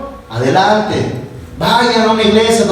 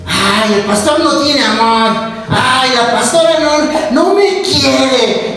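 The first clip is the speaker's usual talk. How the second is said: whiny churchgoer; 3 semitones higher, slower than usual. Retold or imitated. Congregant whining about pastor.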